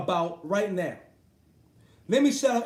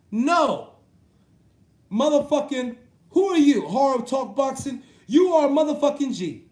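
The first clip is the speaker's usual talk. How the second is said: mocking shout; 3 semitones higher, 5 dB louder than usual. Ranting vlogger mocks a commenter's boast with a loud shout.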